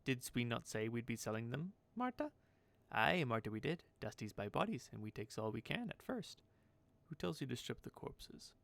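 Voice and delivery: lightly voiced lilting crone; batty character checking with herself; eccentric seamstress, conferring. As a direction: question yourself, then readily agree.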